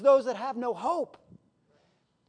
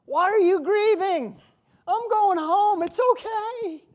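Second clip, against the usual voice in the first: higher, slow, gentle dying saint; dying believer comforting; 8 semitones higher, 5 dB louder, slower than usual. Acted. Dying believer reassures grieving family, higher, slow, gentle. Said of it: "the dying person that's laying there ministered to us".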